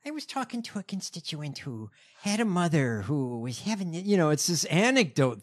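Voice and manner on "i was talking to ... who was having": Haley Stevens impression. Co-host retelling candidate's debate response, mocking mimicry. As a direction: mimic a rehearsed candidate anecdote. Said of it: "they went to her and she said".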